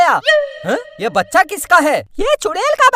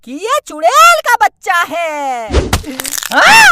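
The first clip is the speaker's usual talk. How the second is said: a hint of a threatening witch, slower; lightly voiced witch; 3 semitones higher than usual. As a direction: menace the man who took her child. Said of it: "मैं हूँ चुड़ैल". (बच्चा उठाने वाले को धमकाती चुड़ैल, हल्की डरावनी आवाज़)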